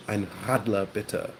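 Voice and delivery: RADLER with a throaty German R; German pronunciation, guttural R in RADLER; back-of-throat German. Shown as a demonstration. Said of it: "it's all at the back of the throat".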